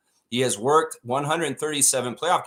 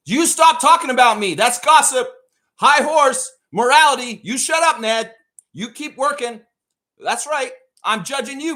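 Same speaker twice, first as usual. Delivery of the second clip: high, loud mock moral scolding; hammed-up preachy judge yelling at Ned; judging shout; 10 semitones higher, 5 dB louder than usual. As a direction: lord it over them like a self-righteous boss. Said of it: "let me come follow you for a week".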